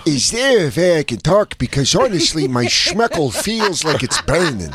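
put-on mild Yiddish-accented complaint. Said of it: "You both do a great Jewish man".

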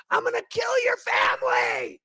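lampoon the angry threat; mocking threatening man. Host mocking the Marine's threat, high cartoon yell. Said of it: "He goes".

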